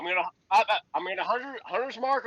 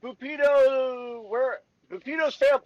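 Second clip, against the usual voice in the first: slow, higher shouted call; hollering; 5 semitones higher, 3 dB louder, slower than usual. Acted. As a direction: call the name out slowly across the street. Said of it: "I holler out".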